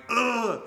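high mock groan of dread; acted-out cringing "ugh"; exasperated groan. Acts out own nervous reaction.

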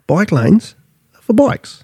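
rising emphasis landing high on "bikes"; stress on bikes. Real, not acted. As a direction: punch "bikes" high as the point. Ranting about cyclists.

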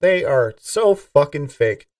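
slow, quiet, disgusted mutter. Retold or imitated. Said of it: "I look at ... politicians like".

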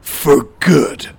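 superhero voice. Acted. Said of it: "That's my superhero voice".

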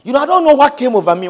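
mock excuse. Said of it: "You say".

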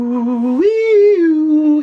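high, loud excited whoop; excited hoot. Real, not acted. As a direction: whoop at the reference. Excited reaction to Matrix reference.

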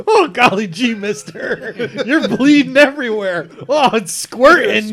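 put-on high, loud gee-whiz kid voice; wholesome 1950s kid. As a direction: gush like an eager small-town kid. Gas attendant voiced, golly gee.

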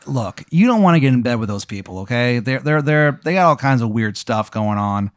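lightly hammed-up Maryland accent; Wizard of Baltimore. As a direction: warn them off in a bad Maryland accent. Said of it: "how upsetting this Maryland accent is".

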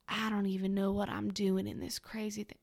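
lightly put-on Southern accent, not quite landing; badly faked Southern US movie-star accent; Matthew McConaughey. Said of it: "I don't know what this accent is".

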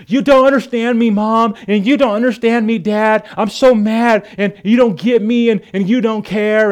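put-on high, loud, whining teenage protest; angry child. Angry kid shouting at parents, high whiny yell. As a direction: hurl it at mom and dad. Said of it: "they're angry and they look at you".

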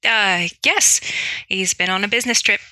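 hesitant, put-on Irish; Irish accent. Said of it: "do my best Irish accent".

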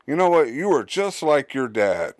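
loud angry scolding, voice jumping up; mom yelling. Retold or imitated. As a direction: yell it like a fed-up mom. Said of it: "yells at you and says".

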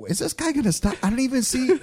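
high, puzzled retold thought; baffled. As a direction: sound lost and confused. Confused in the chase.

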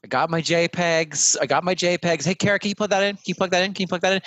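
high-pitched, excited pestering; eager computer. Acted. Computer asking officer to plug in the server, eager and insistent.

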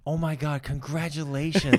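a hint of an excited lady; excited stranger. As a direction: gush like a thrilled stranger. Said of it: "some lady turns around and she goes".

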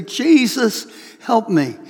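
a single surrendering call, no longer yelling; eyes-closed plea. Retold or imitated. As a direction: hand it over to Jesus, eyes shut. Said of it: "close your eyes and say".

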